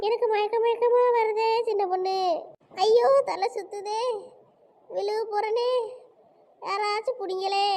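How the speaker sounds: whimpering, hammed-up dizzy spell; feigned faintness. Woman faking a faint before friends, whimpering theatrically. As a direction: moan as if about to collapse. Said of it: "அதுவே நாடகம் நடத்திட்டு கிடக்கு".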